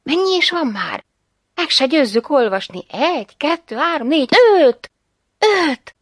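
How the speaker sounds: high, rising excited counting; excited discovery. A narrator's reading. Mother counting the coins she just found, excited. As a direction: call out each number, bursting on the last.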